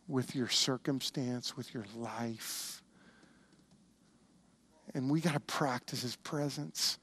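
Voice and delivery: low, soft, weighty preaching; hushed earnest appeal. Real, not acted. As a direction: let it drop low and soft, with long pauses. Pastor's earnest appeal after story.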